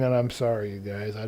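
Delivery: apology stretched by a yawn. Real, not acted. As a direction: speak through a yawn. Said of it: "I cannot stop yawning".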